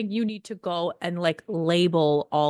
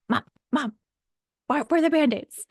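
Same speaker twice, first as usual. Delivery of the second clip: yelling across the room; 7 semitones higher than usual. Retold or imitated. Kid calling for Band-Aids.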